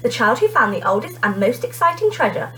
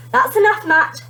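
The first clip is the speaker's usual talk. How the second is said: firm teacher; 8 semitones higher, 3 dB louder than usual. A narrator's reading. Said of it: "teacher stopping the mocking".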